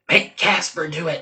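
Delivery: soft conspiratorial whisper. Retold or imitated. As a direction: whisper it sideways, scheming. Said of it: "I would just whisper over to you".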